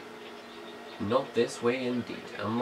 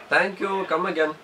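high, chirpy "Thank you. Come again." like a friendly shopkeeper; 7 semitones higher, 3 dB louder than usual. Pretend. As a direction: play a cheery shop clerk waving customers off. Mock shopkeeper farewell.

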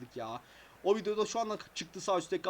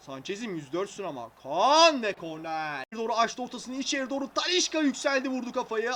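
running match commentary, quick and lively; play-by-play commentary. Acted. Commentating his game to viewers, play-by-play. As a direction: call the passes like a TV commentator.

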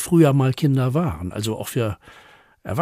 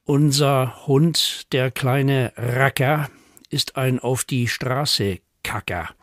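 measured, playful verse recital; poem for children. A narrator's reading. Poet reads children a pet poem, playful recital. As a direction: lean on each rhyme as you read.

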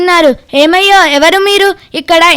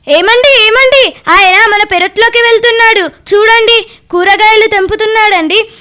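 alarmed calling; 4 semitones higher than usual. Acted. Wife alarmed, neighbour raiding garden.

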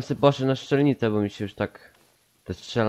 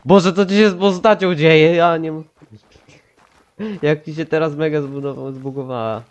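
shocked outburst; 5 semitones higher, 4 dB louder than usual. Real, not acted. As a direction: voice shoots up high and loud in amazement. Friend's avatar glitches oddly. (zdumiony okrzyk, dużo wyżej i głośniej)

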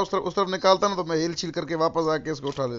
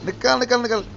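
panicked shouting; 5 semitones higher than usual. Real, not acted. Panicked orders to drive away.

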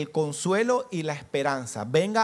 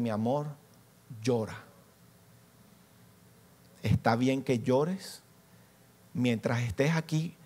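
tender parent; 3 semitones lower than usual. Retold or imitated. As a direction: soothe it like holding a child to your chest. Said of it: "cargadas de ternura".

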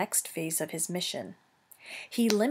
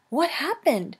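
dazed robot mother; 7 semitones higher, 3 dB louder than usual. Acted. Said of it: "she said finally".

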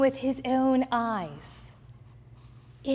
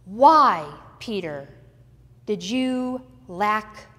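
shaming scold; 7 dB louder than usual. Acted. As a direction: berate him like a stern teacher. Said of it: "shaming Peter for his lack of faith".

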